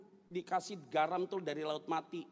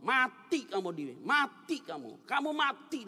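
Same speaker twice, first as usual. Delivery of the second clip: lightly voiced taunting devil, drawn out; imitated devil; 6 semitones higher, 4 dB louder than usual. Devil in the driver's ear, imitated menacing voice. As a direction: imitate a devil chanting a death threat. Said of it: "Setan tuh masuk dalam telinga saya, ngomong".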